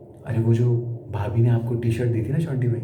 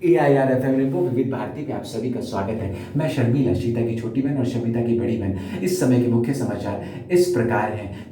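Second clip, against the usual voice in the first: radio news presenter; 2 semitones lower than usual. Acted. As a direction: read it like an All India Radio bulletin. (Akashvani समाचार वाचक की नकल)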